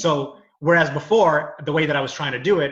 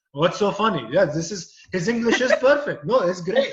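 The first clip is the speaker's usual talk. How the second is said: imitating a Middle Eastern audience member's accent; mock Middle Eastern accent, puzzled; 3 semitones higher than usual. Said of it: "imagine doing the accent".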